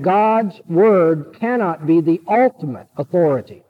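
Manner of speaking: "ultimate" set apart with deliberate emphasis; stress on ultimate. Real, not acted. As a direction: lean firmly on the word "ultimate". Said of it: "I'm stressing the word ultimate here".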